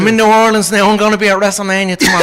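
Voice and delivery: Irish brogue, laughing brag; cocky Irish accent, rolling with laughter; Conor McGregor impression. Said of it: "the Connor one".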